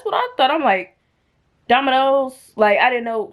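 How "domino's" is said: puzzled question. Retold or imitated. Puzzled at unfamiliar word.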